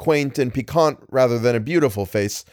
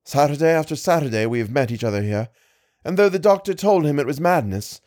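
put-on lightly pitched-up young woman telling her story; a hint of the lady, higher and earnest; young lady explaining her lost brother, lightly voiced higher; distressed young lady; 3 semitones higher than usual. Lady's long explanation.

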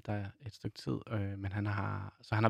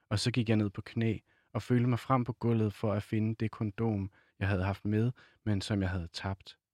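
measured novel reading with pauses between phrases; literary reading aloud. A narrator's reading. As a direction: read the passage aloud, unhurried.

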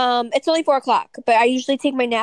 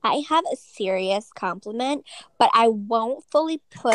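Kim Kardashian impression. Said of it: "I'm gonna say it like Kim would".

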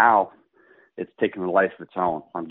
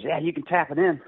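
mock casual playing partner; 9 semitones higher than usual. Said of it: "Aaron goes".

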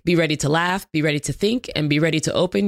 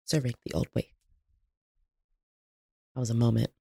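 soft sassy purr; 5 semitones lower, 8 dB quieter, faster than usual. Pretend. Voguing commentary, soft flourish.

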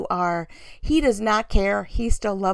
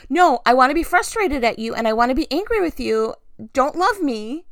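mock angry protest; 2 semitones higher than usual. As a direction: act out digging your heels in. Acted protest against God's love.

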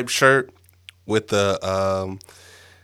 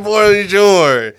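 loud, high French hello; hammed-up greeting; 8 semitones higher, 7 dB louder than usual. Host greets listeners in French, loud and showy. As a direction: belt out a showy bonjour.

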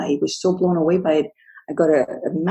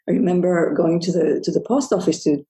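ordinary delivery

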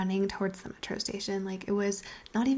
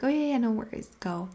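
higher, louder quick reassurance; breezy go-ahead; 4 semitones higher, 4 dB louder than usual. Retold or imitated. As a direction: wave him off brightly, a bit raised. Waving him off to other date.

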